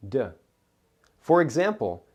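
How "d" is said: a lone voiced D sound; isolated d with a short release. Shown as a demonstration. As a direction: make just the d sound. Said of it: "might have the D sound".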